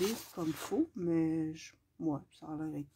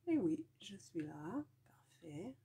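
whisper; 6 dB quieter than usual. Real, not acted. Greeting viewers softly at stream start.

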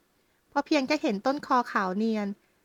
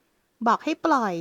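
slow, firm command; a heroine giving a firm command; stern order; much slower than usual. Acted. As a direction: order him to let go, stern but understated. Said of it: "ออกคำสั่งเสียงเข้ม".

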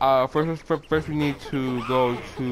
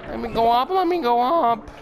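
high squeaky voice; 10 semitones higher, 4 dB louder than usual. Pretend. High excited repetition.

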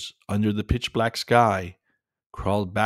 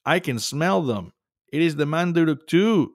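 higher, louder alarmed shout; 6 semitones higher, 4 dB louder than usual. Acted. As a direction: cry out the creature's name in alarm. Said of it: "shouted Aledro".

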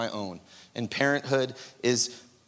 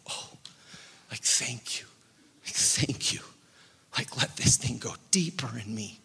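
hushed, breathy whisper of gratitude; whispered thanks; 3 semitones lower, 4 dB quieter than usual. Retold or imitated. Pastor whispering his thanks to God at the cross. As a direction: whisper it like a private prayer.

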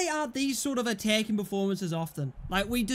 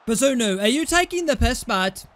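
exasperated rant; 2 semitones higher, 5 dB louder than usual. Real, not acted. Keeper lets in a goal.

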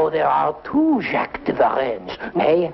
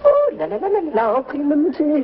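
much higher, singsong French role; mock Frenchman; much faster than usual. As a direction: trill a hammy French welcome. Frenchman role, shrill mock greeting.

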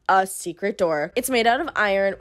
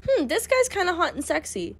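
higher-pitched, lightly voiced swooning girl; mock admiring girl; 7 semitones higher than usual. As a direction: imitate a girl idly admiring a guy. Mocking a character's admiring thought.

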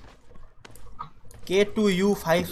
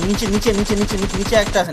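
calling out; 5 semitones higher, 7 dB louder than usual. Real, not acted. Calling out enemy position.

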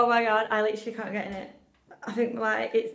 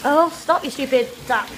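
annoyed shout; 2 semitones higher, 5 dB louder than usual. Real, not acted. Yelling at tap in ice bath.

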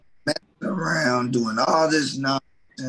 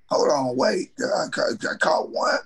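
excited disbelief. Retold or imitated. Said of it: "retold catching fish".

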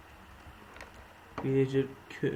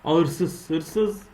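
calling thief; 2 semitones higher, 4 dB louder, much slower than usual. Real, not acted. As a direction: yell hırsız at the thief. Mob steals pickaxe. (hırsız diye bağırma)

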